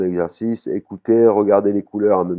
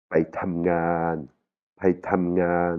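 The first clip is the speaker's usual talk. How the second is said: "Paitamngan" drawn out slowly, "tam" dropping; falling tone on TAM; much slower than usual. Shown as a demonstration. Teacher shows students how the tam falls, falling tone. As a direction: let "tam" fall in a slow "Paitamngan". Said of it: "il tombe comme ça".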